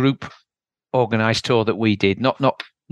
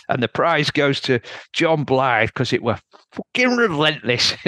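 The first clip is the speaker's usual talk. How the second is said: a light mock Yorkshire accent attempted by an Aussie, raised pitch; Australian Yorkshire accent; 3 semitones higher than usual. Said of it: "in his best Australian Yorkshire accent".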